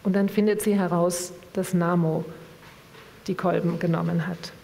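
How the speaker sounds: measured literary reading voice; calm book reading with voiced dialogue; story narration. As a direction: read the novel aloud to the audience. Reads a novel passage aloud.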